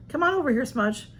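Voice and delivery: lifted voice beckoning a pet; calling the cat. Real, not acted. Calling her cat over.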